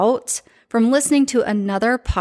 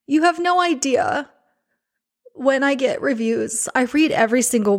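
real emotion, halting, breaking into a laugh; overwhelmed with gratitude, barely holding it together; emotional, choked up; 3 semitones higher than usual. Real, not acted. Host thanking a listener for a moving review, choked up. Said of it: "I've been an emotional mess today".

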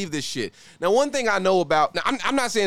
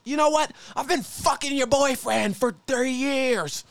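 culprit confessing; 10 semitones higher than usual. Retold or imitated. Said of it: "The culprit goes".

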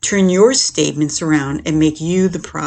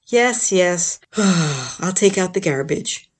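reluctant sighing; much slower than usual. Retold or imitated. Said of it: "the torrent of sigh begin".

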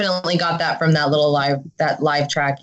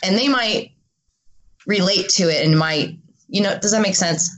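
hungover. Real, not acted. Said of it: "I'm so hungover".

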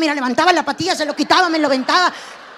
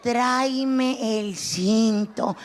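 lower slow menace; 4 semitones lower, much slower than usual. Retold or imitated. Comedian's mother repeating the belt order, low and slow. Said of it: "todavía me decía".

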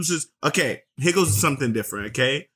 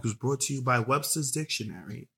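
relaxing voice; 2 semitones lower, 5 dB quieter than usual. Real, not acted. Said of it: "It's my relaxing voice".

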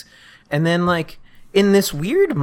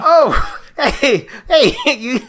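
high phone voice; 8 semitones higher than usual. Acted. Band guy on phone.

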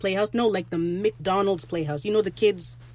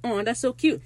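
higher-pitched imitation of cooing onlookers; mock gushing; 5 semitones higher than usual. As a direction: gush like a charmed listener, lightly hammed up. Onlookers gush over the love story.

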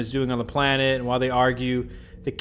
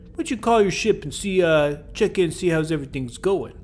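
light mock Brooklyn accent, pitched up; a hint of Brooklyn, sweetly offering; 4 semitones higher than usual. Sylvia coaxing Kirk to call his ship, light Brooklyn accent. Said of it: "Sylvia's from Brooklyn now".

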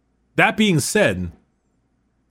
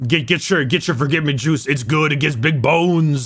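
Hulk Hogan voice; 3 semitones lower than usual. Retold or imitated. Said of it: "Hulk Hogan meme".

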